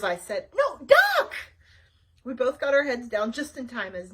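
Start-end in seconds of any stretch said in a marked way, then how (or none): 0.5-1.3 high, loud repeated warning; urgent yell. Acted. Wanda yells the warning again, higher and louder. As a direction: yell it harder.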